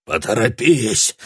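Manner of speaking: panting urgent shaman; puffed out, urgent; puffing shaman. A narrator's reading. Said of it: "пропыхтел он".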